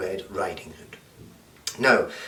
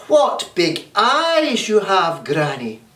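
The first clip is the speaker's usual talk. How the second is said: Red Riding Hood; 7 semitones higher, 4 dB louder, slower than usual. Acted. Girl notices eyes.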